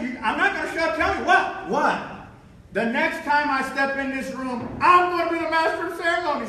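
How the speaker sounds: acted-out indignant vow; defiant boast. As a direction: insist on it to the doubters. Retold defiant boast to tablemates.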